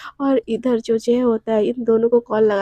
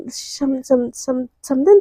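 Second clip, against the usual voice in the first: shocked stammer; much slower than usual. Acted. Shocked mother stammering word.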